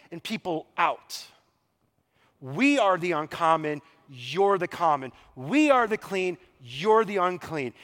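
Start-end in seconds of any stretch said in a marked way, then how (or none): 2.4-7.7 loud, contrasting we against you; emphatic us-versus-them pronouncement; superior declaration. Retold or imitated. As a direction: proclaim superiority, punching each pronoun. Acted quote of religious superiority.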